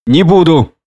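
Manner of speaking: spiteful. A narrator's reading. Prendick refuses the drunkard's brandy, spitefully. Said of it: "злобно сказал я".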